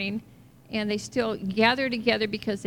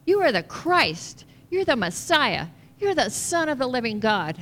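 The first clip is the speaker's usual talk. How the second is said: fervent declaration; 5 dB louder than usual. Retold or imitated. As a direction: proclaim it with conviction. Peter declares Jesus is Messiah.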